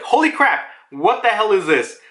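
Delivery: mildly high mock astonishment; acted shock. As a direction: act out being stunned by the sight. Voices Jinbei's shock at seeing Haki.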